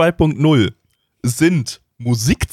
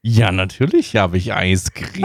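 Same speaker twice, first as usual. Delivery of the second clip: creepy candy man; 5 semitones lower than usual. Acted. Candy man answers kid.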